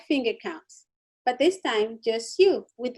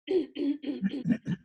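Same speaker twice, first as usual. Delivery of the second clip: throat clearing. Shown as a demonstration. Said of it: "feel the need to clear your throat".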